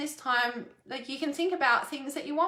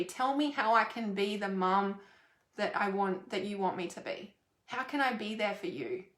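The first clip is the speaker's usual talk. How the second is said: softer, lower caring plea; gentle mum; 3 semitones lower, 3 dB quieter than usual. Pretend. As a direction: quietly ask how to be there for him. Mum offering help to son.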